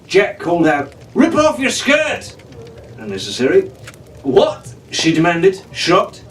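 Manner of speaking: lively adventure read-aloud; storyteller building suspense; story narration. A narrator's reading. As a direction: read it like a bedtime adventure serial. Reads adventure novel aloud.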